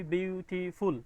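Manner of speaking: বিউটিফুল said slowly, split into its three syllables; syllable demo. Shown as a demonstration. Teacher slowly splits বিউটিফুল into syllables for the students. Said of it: "তাহলে এটা তিনটা সিলেবলে হইল".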